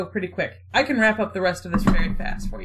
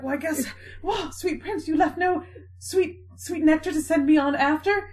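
mock tragic hero; 5 semitones higher than usual.

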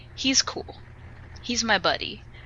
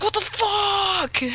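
slow, much higher stunned what-the-fuck; pitched-up incredulous swear; outraged disbelief; 14 semitones higher, slower than usual. Retold or imitated. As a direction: stretch it out in shocked outrage. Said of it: "I was so mad. Like, I was livid".

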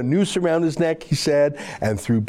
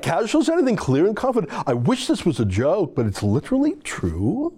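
Miles McInnes voice; 2 semitones higher than usual. Retold or imitated. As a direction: read it as a whiny activist. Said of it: "I'm gonna read it in my Miles McInnes voice".

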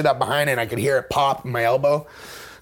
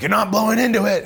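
mock cop; 8 semitones higher, 4 dB louder than usual. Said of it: "he's like".

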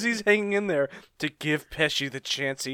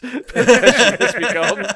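dramatic announcer; 8 semitones higher, 10 dB louder, much slower than usual. Pretend. Meme quote, dramatic announcement.

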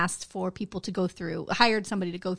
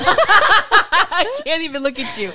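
trying not to laugh; 4 semitones higher, 5 dB louder than usual. Real, not acted. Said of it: "I think it's so funny".

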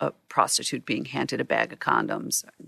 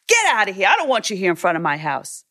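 raised, angry wiseguy dismissal; Goodfellas mobster; 4 semitones higher, 5 dB louder, faster than usual. Retold or imitated. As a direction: order them off your property like a gangster. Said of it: "like a character out of Goodfellas".

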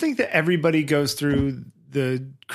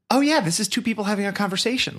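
amazed realization; 6 semitones higher than usual. Retold or imitated. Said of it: "and I go".

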